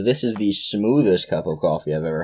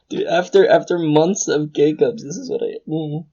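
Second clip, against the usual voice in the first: blissed out; 8 semitones higher than usual. Real, not acted. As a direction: savor the memory, drifting off into a hum. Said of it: "already having an orgasm with your drink".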